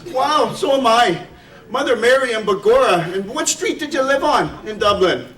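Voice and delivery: lightly hammed-up Irish delight at the coincidence; Irish brogue. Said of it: "I'll try to do a little Irish brogue".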